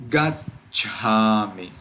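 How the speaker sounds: gacchami slow, stopped after gac before chami; pause on double consonant. Shown as a demonstration. Teacher giving another example, gacchami with a held stop before cha. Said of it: "We make a little pause".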